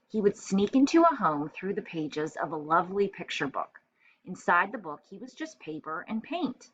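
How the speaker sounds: clear, expressive picture-book reading; storytelling read-aloud. A narrator's reading. Teacher reading a picture book to first graders, storytelling voice. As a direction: read it like story time for little kids.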